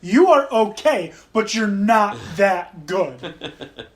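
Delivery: put-on slow, drawn-out Russian accent. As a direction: point and sneer in a Russian accent. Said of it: "In his Russian accent".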